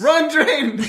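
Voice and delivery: high-pitched, drawn-out call; playful high cry of alarm; acted urgent call. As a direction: urge a friend to flee. Urging companion to flee.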